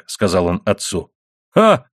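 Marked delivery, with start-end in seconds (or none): 1.5-1.9 high, louder scoffing burst; short exclaimed interjection, pitched well up; exclamation. A narrator's reading. Collier answers his son's compliment, exclaiming. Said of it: "воскликнул Углекоп".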